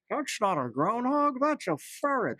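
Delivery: high-pitched mock protest; imitating Alexa user. Co-host as baffled customer spotting the ferret, mock voice. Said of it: "people in the shop asking".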